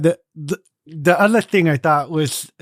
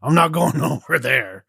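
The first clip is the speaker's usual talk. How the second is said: stubborn jutting jaw guard. Pretend. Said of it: "Stick out your jaw and just start talking".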